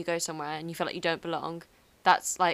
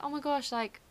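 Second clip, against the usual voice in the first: much higher-pitched delighted surprise; excited mock greeting; 7 semitones higher than usual. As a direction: act thrilled to meet fellow speakers. Acting out greeting Spanish speakers.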